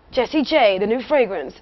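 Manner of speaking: lilting, hammed-up fragrance ad read; mock perfume advert. Singer pitching her imagined fragrance, mock advert. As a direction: announce a silly perfume like an advert.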